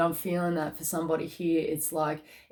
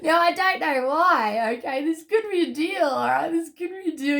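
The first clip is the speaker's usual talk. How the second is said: choked up; 11 semitones higher, 5 dB louder than usual. Real, not acted. Tarot reader overcome mid-reading.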